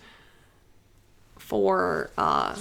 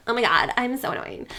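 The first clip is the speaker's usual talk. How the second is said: put-on annoying girl voice; 2 semitones higher than usual. Shown as a demonstration. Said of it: "This is kinda how she talks".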